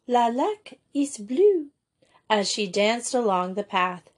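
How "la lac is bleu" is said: mild joyful cry, drawn out slowly; higher, slow call of delight; a restrained shriek of joy. A narrator's reading. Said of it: "she shrieked with joys".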